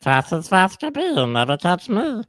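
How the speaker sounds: strained comic cartoon-critter voice; mock jackalope taunt. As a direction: squeeze it out through the throat. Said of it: "Dave Coulier used to do that".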